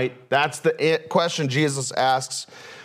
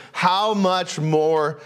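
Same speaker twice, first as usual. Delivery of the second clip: slow "how much more" set apart; slow down and lift "how much more"; emphasized phrase; 4 semitones higher, much slower than usual. Shown as a demonstration. Preacher naming the phrase, slow and lifted. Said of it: "one of those".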